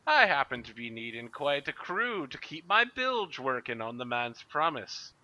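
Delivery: high, loud cackling pirate first mate; pirate Plug voice. Acted. Mister Plug asks Master Scourge for a crew in a high pirate voice. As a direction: squeal it out like a greedy pirate mate. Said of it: "Mister Plug turns to Master Scourge and says".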